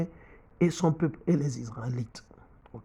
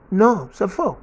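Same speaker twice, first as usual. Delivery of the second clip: raised, loud rejection; emphatic denial; 3 semitones higher, 5 dB louder, slower than usual. Real, not acted. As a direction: hammer home that it is wrong. Preacher denying African identity.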